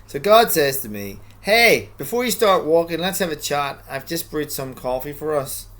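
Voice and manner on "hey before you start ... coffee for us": lightly voiced God, louder greeting; voicing God. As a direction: read God's invitation again with more life. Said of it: "Maybe we need to read that again".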